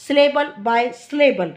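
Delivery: "syllable by syllable" slowed and stressed, each syllable spaced out. Shown as a demonstration. Teacher reading the text to students, slow and deliberate. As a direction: spell out "syllable by syllable" slowly and firmly for students. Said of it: "Syllable by syllable का मतलब होता है".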